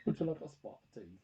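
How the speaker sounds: soft put-on English accent; mock British accent. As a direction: offer it in a fake British accent. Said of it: "I was talking their language".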